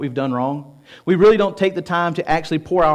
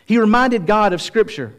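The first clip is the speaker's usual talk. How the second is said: raised, high-pitched preaching emphasis; emphatic point; 5 semitones higher than usual. Real, not acted. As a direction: drive the point home with a lifted voice.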